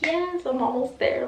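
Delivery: high, thrilled yes; re-enacted excitement. Acting out excitement at progress.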